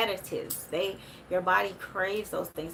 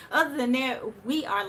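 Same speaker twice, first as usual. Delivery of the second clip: repeated higher and louder, still laughing; laughing restart; 5 semitones higher, 5 dB louder than usual. Real, not acted. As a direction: push the words out through the laughter.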